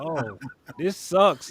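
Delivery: slow, deflated groan of a line; dragging it out, dejected; slow mock-mopey sigh; glum. Alone in the cold terminal.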